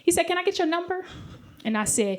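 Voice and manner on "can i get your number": higher, gently hopeful request; imitating a sweet suitor asking shyly. Man asking a stranger for her number, sweetly. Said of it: "so sweet".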